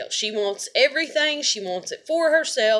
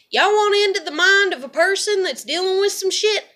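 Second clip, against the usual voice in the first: loud, higher furious venting; angry rant; 8 semitones higher, 5 dB louder than usual. Real, not acted. Vlogger venting loudly at viewers, furious. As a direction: let the anger pour out at the viewers. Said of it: "I'm really mad".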